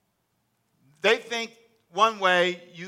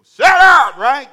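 much higher and louder, a mock shout; 10 semitones higher, 18 dB louder, much slower than usual. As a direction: bark it out as a hammed-up joke. Mock hushing a loud brother.

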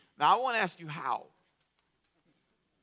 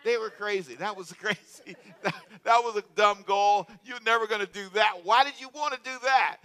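incredulous; 5 semitones higher, 6 dB louder than usual. Retold or imitated. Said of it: "I thought".

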